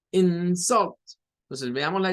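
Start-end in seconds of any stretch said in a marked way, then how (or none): 0.1-1.0 "insult" with a forceful IN and weaker sult; stress on first syllable. Shown as a demonstration. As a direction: say IN-sult for "insult", teacher's demo. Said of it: "en el segundo caso se debe pronunciar como".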